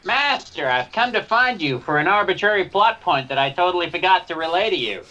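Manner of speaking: high eager droid voice. Acted. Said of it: "drop the voice".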